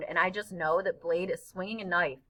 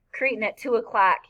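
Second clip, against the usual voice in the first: a louder, urgent heads-up; urgent warning; 2 semitones higher, 5 dB louder than usual. Acted. Boy on shoulders warns his friend of a bully, urgently. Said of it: "he says, real urgent".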